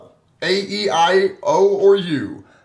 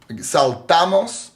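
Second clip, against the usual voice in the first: saltamos slowly, sal-TA-mos; stress on middle syllable; slower than usual. Shown as a demonstration. Teacher demonstrating a word without accent mark, saltamos slowly as sal-TA-mos. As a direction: draw out the TA in saltamos. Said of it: "do not take the accent mark".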